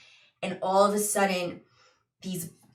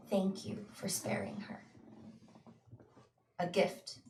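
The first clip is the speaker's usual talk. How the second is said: hushed, near-whispered, with long pauses; a soft, ghostly message inside the mind; voice in the head; 11 dB quieter than usual. Acted. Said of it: "you hear a voice in your brain".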